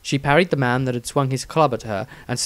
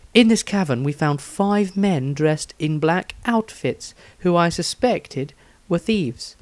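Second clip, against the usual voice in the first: Rysandria's diary voice; 5 semitones higher than usual. Acted. Reads Rysandria's diary in character.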